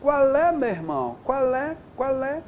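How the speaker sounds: a hint of a casual slangy challenger; slang speaker. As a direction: toss it off as informal slang, rising on each question. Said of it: "a pessoa fala assim".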